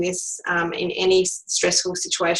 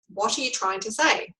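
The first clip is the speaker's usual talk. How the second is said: calm, softer question; 2 semitones higher, 7 dB quieter than usual. Shown as a demonstration. Coach showing the calm reply to a bully, softly. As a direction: ask it calmly, unruffled. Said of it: "and calmly say".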